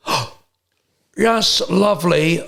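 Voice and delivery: impression of Brian Badondi. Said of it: "and goes".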